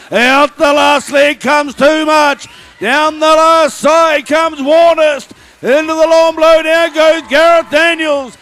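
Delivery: excited race calling. Real, not acted. Shearing race commentary climax.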